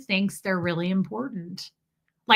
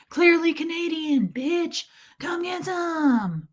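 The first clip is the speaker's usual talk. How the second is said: higher, slow swaggering dare; mock taunt; 7 semitones higher, slower than usual. Mocking bragging men, slow swaggering dare. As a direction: drag out the dare like a cocky bro.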